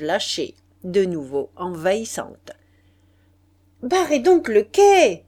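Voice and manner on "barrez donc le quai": loud, high barked command; shouted order. A narrator's reading. Stationmaster shouting orders to his men, loud command. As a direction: yell the order across the crowd. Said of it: "criait le chef de gare à ses hommes".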